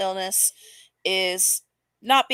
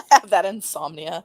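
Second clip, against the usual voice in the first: laughing through the quote; mocking laugh while echoing it; laughing mock repeat; 5 dB louder than usual. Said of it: "repeats clip with a laugh".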